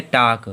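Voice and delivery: टाक said as "tawk" with a silent L; teacher sounding out टाक for the class; model pronunciation. Shown as a demonstration. Teacher models टाक with the L kept silent. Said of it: "क्या पढ़ेंगे?".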